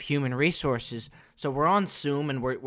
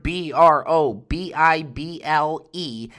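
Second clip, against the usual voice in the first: spelled out slowly; 4 dB louder, slower than usual. Shown as a demonstration. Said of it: "One word".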